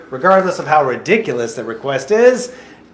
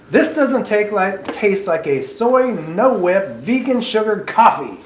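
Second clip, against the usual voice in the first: playing a fussy customer, a little higher and slower; mock upset customer; 6 semitones higher, slower than usual. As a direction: interviewer plays an upset customer, mildly put-on complaining. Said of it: "A customer comes up to you, rather upset".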